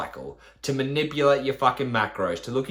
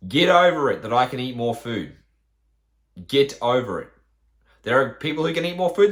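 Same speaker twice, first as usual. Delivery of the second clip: louder, blunt get over it; firm scolding; 6 dB louder than usual. Real, not acted. Coach telling complaining followers to get over it, loud and blunt.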